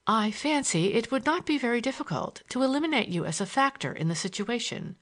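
cold, cutting remark; icy. Acted. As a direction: freeze him out. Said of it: "she remarked icily".

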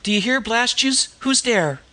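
high, harsh street-woman screech; screeching Gypsy Nan. A narrator's reading. Disguised heroine screeches at the intruder in the dark, rough street voice. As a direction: screech it out as a rough slum hag. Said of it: "she screeched".

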